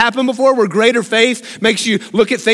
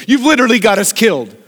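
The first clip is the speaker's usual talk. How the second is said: Moses complaining to God; faster than usual. Retold or imitated. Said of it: "Moses turns to God and goes".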